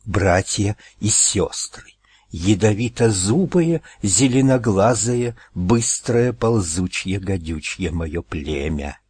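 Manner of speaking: slow hoarse hiss; hissing old snake. Acted. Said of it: "прошипела змея-старейшина".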